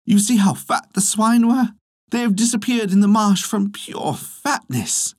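high-pitched, emphatic exclamation; exclaiming. A narrator's reading. Gufa explaining the sunken swine to farmer, exclaiming. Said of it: "And Gufa exclaimed".

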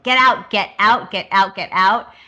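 mock freak-out, urgent repeats; rapid-fire mock panic. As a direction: retell him losing it. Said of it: "freaks out on her".

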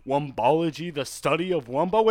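SpongeBob quote. Retold or imitated. Reciting SpongeBob's Wumbo lesson to friends, building loud. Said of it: "It's a SpongeBob quote".

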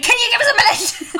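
high, squeaky imitation of her partner; squeaky mock plea; mock high-pitched plea. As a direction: mimic a dazed friend begging for a pause. Jade imitated driving off.

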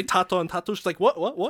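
hammed-up confused dads. Acting Polish dads.

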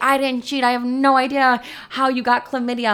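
high-pitched imitated denial; mock screaming protest. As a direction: imitate a boyfriend pleading innocence in a row. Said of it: "we're both screaming in the hallway".

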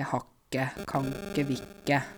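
HAR IKKE, KAN IKKE, VIL IKKE contracted like hakke, kakke, vikke; words run together. Shown as a demonstration. Teacher showing dialect contractions, IKKE fused onto each verb. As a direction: merge IKKE into the verb before it. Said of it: "jeg drar sammen orda".

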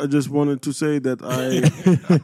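lightly mocking, hesitant delivery; mock awkward pickup. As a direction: stumble through it with ums and pauses. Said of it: "This is exactly how you said it too".

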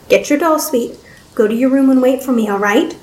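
soothing fatherly coo. Acted. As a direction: coax a child sweetly. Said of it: "he cooed".

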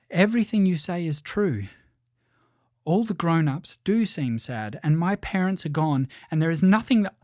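put-on mildly upset girl, breaking off unfinished; troubled young princess. Princess confiding in the voice about her parents, mildly upset.

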